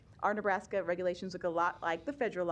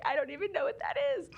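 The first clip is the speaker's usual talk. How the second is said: quick, higher-pitched confused reply; retold bewilderment; 7 semitones higher, faster than usual. Parent retells answering her teacher friend, quick and bewildered. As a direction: rush it out, imitating your own confusion.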